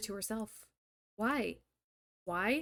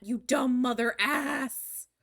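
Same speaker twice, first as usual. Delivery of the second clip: exasperated insult; 5 dB louder, much slower than usual. Real, not acted. Yelling at character.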